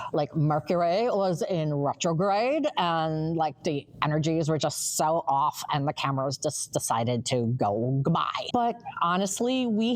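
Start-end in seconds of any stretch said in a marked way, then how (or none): 0.1-8.5 a hint of airy Valley Girl, sinking lower toward the end; spiritual Valley Girl. Co-host jokingly blaming the glitch on the planets, mock Valley Girl. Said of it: "use my spiritual Valley Girl voice".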